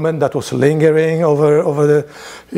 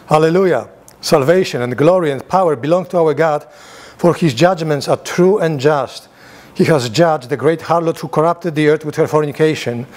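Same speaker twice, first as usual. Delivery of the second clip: raised, solemn reading voice; scripture reading; 2 semitones higher than usual. Acted. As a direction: read it out like scripture to the room. Reads Revelation aloud to class.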